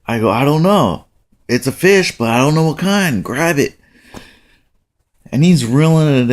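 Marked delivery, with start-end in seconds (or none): 0.3-3.8 higher, hurried reply; retold dad's excitement; excited urging. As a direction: answer in a fluster and urge him on. Father answers excitedly, fish on line.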